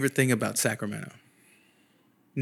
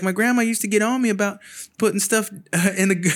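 imitated apologetic girl; 7 semitones higher than usual.

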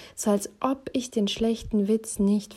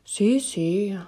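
1 absent Italian husband; 3 semitones higher than usual. A narrator's reading. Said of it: "nickte abwesend".

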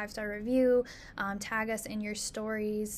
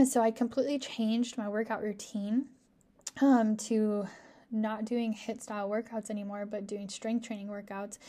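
hoarse, losing my voice. Real, not acted. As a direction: speak through a hoarse, failing voice. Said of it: "I'm, like, losing my voice".

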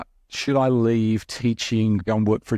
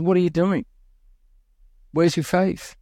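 higher, sharp rebuke of the disciples; cross Jesus; 6 semitones higher than usual. Retold or imitated. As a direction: scold them like a cross teacher. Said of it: "Jesus just gets cross at them and said".

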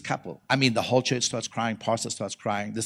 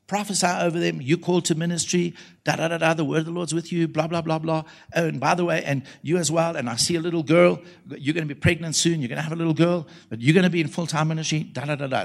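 raised, evenly pitched running patter; recapped prophecy; 3 semitones higher than usual. Retold or imitated. Preacher summing up his prophecy over a young couple, in level patter. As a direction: rattle it off like a familiar routine.

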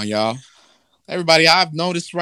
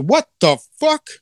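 shocked God; 11 semitones higher, 4 dB louder than usual. Retold or imitated. God learning of the apple.

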